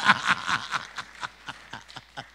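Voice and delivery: loud, long belly laugh; hearty laugh. Real, not acted. Preacher laughs with his congregation, hearty laugh. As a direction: laugh out loud after cheering.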